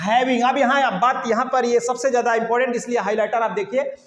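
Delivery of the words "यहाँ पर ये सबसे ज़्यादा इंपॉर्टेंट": usual speaking voice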